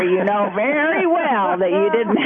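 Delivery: breaking into real laughter mid-line; can't keep a straight face; laughing. Real, not acted. Nurse reading the wife's line to the doctor, laughing.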